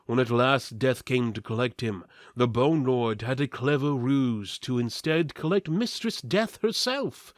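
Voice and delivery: plain reading voice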